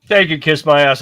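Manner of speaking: loud, scornful kiss-off; scornful retort. Real, not acted. Host snapping back at the debate moderators' sign-off, loud and scornful. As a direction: throw it back at them, punching it out.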